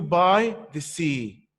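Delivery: slow, stretched "by the sea"; "by the sea" in a slow verse beat; rhythmic line ending. Shown as a demonstration. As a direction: lean on "by", then draw out "sea". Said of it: "You will find that line two".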